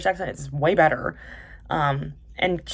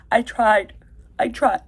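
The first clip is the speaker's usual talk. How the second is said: higher mock-crying movie plea; hammed-up anguish, oddly accented; Teresa; 6 semitones higher, 5 dB louder, slower than usual. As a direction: imitate an overwrought deathbed line. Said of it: "crying and she's, she's going".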